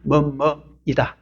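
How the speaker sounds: slow teaching demo. Shown as a demonstration. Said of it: "자기 소개 때 쓰는 문법".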